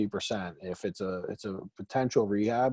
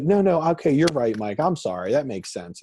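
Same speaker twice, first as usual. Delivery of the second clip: conceding seller; 3 semitones higher than usual. Retold or imitated. Seller voiced giving in.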